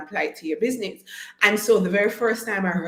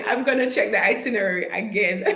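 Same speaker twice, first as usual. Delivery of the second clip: laughing; 3 semitones higher than usual. Real, not acted. Unsure of the presentation time.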